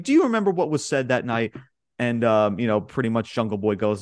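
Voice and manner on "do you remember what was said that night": sarcastic. Retold or imitated. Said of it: "kinda sarcastically".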